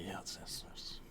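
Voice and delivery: voiceless hushed reply; whispering. Pretend. Brother says the whispering is too quiet, whisper. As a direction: whisper it back to your partner.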